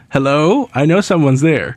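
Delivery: calling out loudly into a cave; yelling. Retold or imitated. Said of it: "He just yells".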